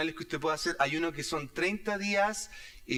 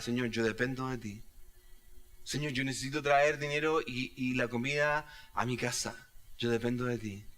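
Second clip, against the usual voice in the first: model prayer; 3 semitones lower than usual. Shown as a demonstration. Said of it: "models a prayer of dependence".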